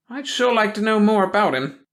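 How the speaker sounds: a prying small-town gossip sniffing out trouble; suspicious old gossip. A narrator's reading. Hackett voice.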